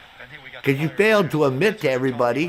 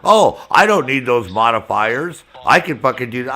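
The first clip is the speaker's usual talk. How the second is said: mock defensive; 6 dB louder than usual. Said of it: "starts getting all defensive and shit".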